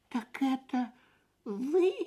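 high, doubtful little chick. A narrator's reading. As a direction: ask it with disbelief. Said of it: "с сомнением сказал Фип".

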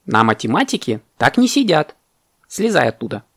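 strict teacher's reprimand; very stern parrot. Acted. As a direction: scold firmly, pitch lifted at first. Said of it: "очень строго сказал попугай".

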